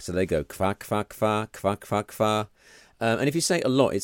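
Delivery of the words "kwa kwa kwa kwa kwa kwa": repeated imitated quacking; Polish duck call. Shown as a demonstration. Dad demonstrating Polish duck noise to co-host, repetitive quacking. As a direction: rattle off a run of duck "kwa"s. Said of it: "they say a Polish duck goes kwa".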